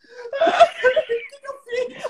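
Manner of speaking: high, drawn-out wail; hammed-up high sobbing voice; mock crying. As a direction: imitate a tearful woman wailing in exaggerated distress. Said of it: "ela começou a chorar".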